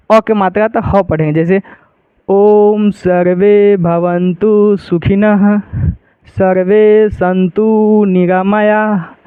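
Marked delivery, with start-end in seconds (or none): 2.3-9.1 very slow mantra recitation. Shown as a demonstration. Teacher reciting the shloka to show students. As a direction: draw out each word of the shloka. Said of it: "एक बार हम पढ़ के आप लोगों को दिखा देते हैं".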